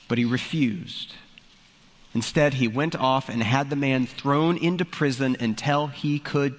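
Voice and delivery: a pastor reading the parable aloud to the congregation; scripture reading. Acted. Pastor reading Matthew to his church, in a scripture-reading voice. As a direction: read it like the Gospel text, measured and clear.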